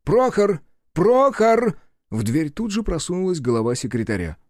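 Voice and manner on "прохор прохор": calling loudly and higher for the secretary; raised voice. A narrator's reading. Mayor calls his secretary through the door, loud. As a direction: shout the name toward the door. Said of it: "Авдеев повысил голос".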